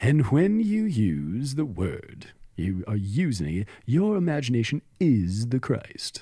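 slow, unctuous mystic voice, oozing out each word. Imitating a mystic quoted from his talks: imitating Neville Goddard's unctuous voice. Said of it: "he had an unctuous voice like this".

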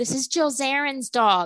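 sudden, blurted-out screaming. Retelling how someone on the street announced a dog: imitating someone screaming. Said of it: "he just screams out".

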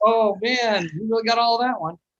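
loud, mocking, taunting heckle. Retelling how he and a buddy heckled players at a ballgame, mocking heckle. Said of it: "we just kept heckling".

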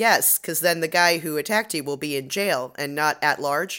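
ordinary delivery

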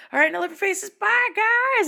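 very high, really loud voice. Retelling signing off a stream late at night: imitating own loud sign-off. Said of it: "really loud".

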